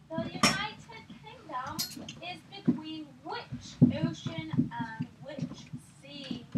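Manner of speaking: measured, put-on British quiz question; attempted British accent. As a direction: read it out in amateur British. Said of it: "mine doesn't really come up sounding British".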